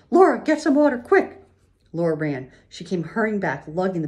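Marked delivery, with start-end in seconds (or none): 0.1-1.4 loud, very high call for help; high-pitched, urgent shout; urgent command. A narrator's reading. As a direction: call out to the child in an emergency. Ma calls urgently for water.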